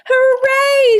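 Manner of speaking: high, loud cheer of joy; excited shout. Acted. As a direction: cheer it out, thrilled to find him. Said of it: "shouted George".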